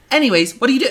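high breezy voice through a laugh; laughing, she brushes it off; mock Samantha. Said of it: "And she's like".

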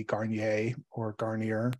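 "Garnier or Garnier", first French-style ending, then anglicized; unsure pronunciation. Real, not acted. Lawyer unsure how the case name is pronounced, "Garnier" said two ways. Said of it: "Not sure how it's pronounced".

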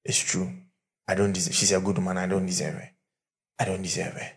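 a touch of sobbing remorse; crying man. Retold or imitated. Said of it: "the man started crying".

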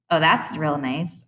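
slow, dry sarcastic comeback; a lightly voiced sarcastic jab; sarcastic retort. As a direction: fire it back with sarcasm. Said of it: "I fire back".

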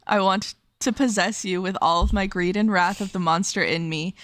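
romantic book reading, steady and earnest; reading aloud. Acted. Host reads the dragon's declaration of love aloud to co-host. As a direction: read the dragon's declaration as a story passage.

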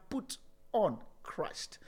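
soft whispered ending; hushed closing words. Acted. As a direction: fade into a whisper. Trailing hush.

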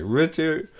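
high, stunned naming; high startled recognition; mock surprise. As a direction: say the name like you've just recognised him. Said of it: "he's like".

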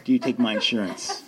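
slipping a laugh into a sheepish question; sheepish laughing ask. Retold or imitated. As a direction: ask it half-laughing, a bit embarrassed. Asking rehab about insurance.

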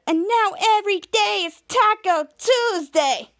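high, slow mock Scottish; high-pitched Scottish accent, stretched words. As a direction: imitate a Scottish newscaster, drawing it out. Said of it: "Scottish Ma-, Mary Gabrielman said".

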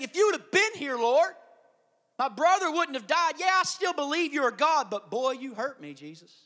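a touch of Mary's grief, trailing off; grieving plea. Acted. Mary voiced pleading with Jesus.

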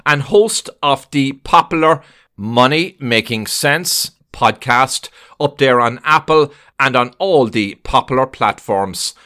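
slow, deliberate host announcement; podcast intro read, slowly spaced out; show introduction. Acted. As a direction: introduce the guest like a radio host, measured.

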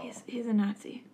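soft, voiceless whisper; whispered aside. Real, not acted. Host explaining Doctor Scott to co-host, whispered.

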